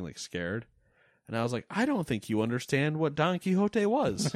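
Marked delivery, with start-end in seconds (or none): 1.7-4.3 high, laughing disbelief; laughing mock retort. Retorting to the cartoonist, laughing in disbelief.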